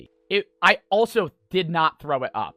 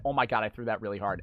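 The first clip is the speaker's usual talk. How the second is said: inner voice; 10 semitones lower, 14 dB quieter, much faster than usual. Retold or imitated. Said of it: "in my head, I said".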